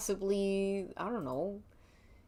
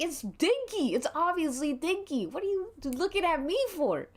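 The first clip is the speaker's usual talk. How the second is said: higher-pitched, exasperated protest; pissed off; 8 semitones higher than usual. Acted. Marchie shoves blame onto Dinky, angry and higher. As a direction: point the finger away in frustration. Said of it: "Marchie is pissed".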